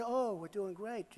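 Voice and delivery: mocking.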